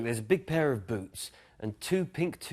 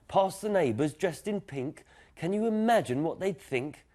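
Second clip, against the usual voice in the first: higher, incredulous dad protesting; mock horrified dad; 7 semitones higher than usual. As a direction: sound scandalised at the very idea. Dad aghast at pink pushchair.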